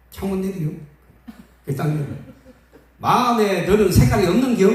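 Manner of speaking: mock-gentle Chungcheong cop asking about the light colour; Chungcheong policeman. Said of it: "충청도 경찰은 그렇게 안 해요".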